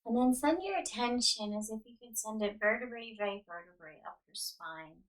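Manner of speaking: unhurried yoga nidra guidance with long pauses; guided meditation. Real, not acted. Yoga teacher settling listeners onto the ground, calm guided meditation. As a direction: guide them into rest, leaving space after each instruction.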